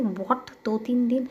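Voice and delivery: sudden loud, high "What?"; outraged surprise, voice jumping up; can't believe two or three days of rest; shocked disbelief. Acted. Shocked at being told to rest.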